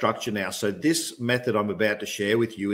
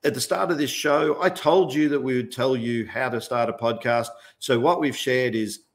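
higher, upbeat host wrap-up read; bright mock radio sign-off, a touch higher; podcast host outro; 3 semitones higher than usual. Shown as a demonstration. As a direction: sound like you're closing your own show. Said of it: "you say".

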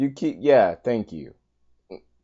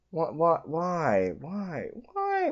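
whiny wail; 7 semitones higher, 5 dB quieter, slower than usual. Real, not acted. Despairing over lost cells.

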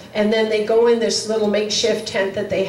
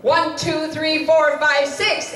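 higher-pitched, rhythmic count; lightly acted CPR count; counting chest compressions; 5 semitones higher, slower than usual. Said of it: "they started pounding".

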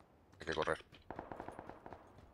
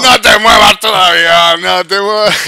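louder, higher, slow begging; tense pleading; 8 semitones higher, 14 dB louder, slower than usual. Real, not acted. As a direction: hold your breath and beg. Begging enemy to stay still.

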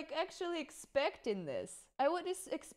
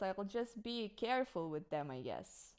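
quiet trailing off; 6 semitones lower, 9 dB quieter than usual. Real, not acted. Trailing off resignation.

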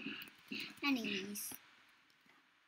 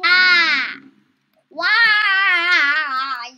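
startled shout; 12 dB louder than usual. Real, not acted. Jump scare in game.

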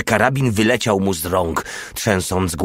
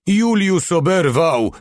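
high, stretched-out yell; alarmed yell; 9 semitones higher, slower than usual. A narrator's reading. Mały reporting a comrade hit, alarmed yell. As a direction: call out the news in a high voice. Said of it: "wrzasnął Mały".

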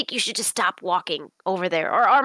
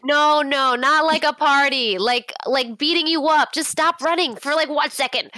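higher, exasperated calling out; mildly raised, pleading yell; in-character yelling; 4 semitones higher than usual. Acted. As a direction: call after someone who won't stop. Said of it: "I'm just actually gonna yell".

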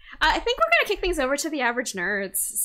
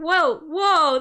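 surprised; 7 semitones higher, 8 dB louder than usual. Real, not acted. Wrong screen shown.

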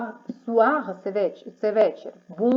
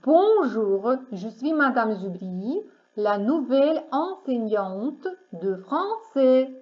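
careful model sentence. Shown as a demonstration. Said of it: "другий варіант".

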